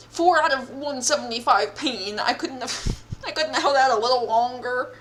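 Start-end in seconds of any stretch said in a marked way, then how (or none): 2.2-4.9 laughing through the words; amused disbelief. Real, not acted. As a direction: giggle at your own defeat. Laughs at losing.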